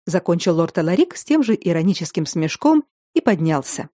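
ordinary delivery

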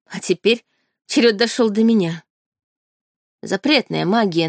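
plain reading voice

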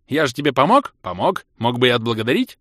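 guilt-trip him for a tip; cheeky elf. Acted. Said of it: "нахально заявил эльф".

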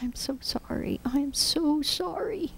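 high, hushed, breaking apology; sorrowful whisper. Retold or imitated. A preacher retelling his tearful apology to Jesus, whispered and breaking. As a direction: whisper it through tears. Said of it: "all I kept saying was".

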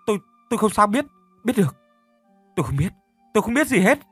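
high, fast, stammering denial; panicked stammer. A narrator's reading. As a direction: stutter in terror, voice climbing. Panicked stuttering denial to police.

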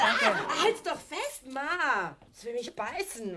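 laughing shriek as it snaps at her; half-laughing, half-scared cry for help; panicky laughing shout. Acted. Einhorn will Tochter beißen. (lachender, erschrockener Hilferuf)

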